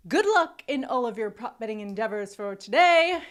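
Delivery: lightly put-on London accent. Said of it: "and my London accent".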